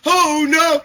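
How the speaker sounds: high, loud screech; psycho noise. Acted. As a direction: squeal out like a crazed creature. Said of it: "the psycho noise".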